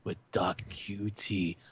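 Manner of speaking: low, slow, breathy whisper; sexy whisper. Pretend. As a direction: whisper it like a mock seduction. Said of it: "Why does your sexy voice sound like you're whispering?".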